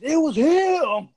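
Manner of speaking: slow, high line broken by laughter; laughing accusation. Retold or imitated. Shane pointing out the guy, laughing. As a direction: point him out while cracking up. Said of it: "Shane just points".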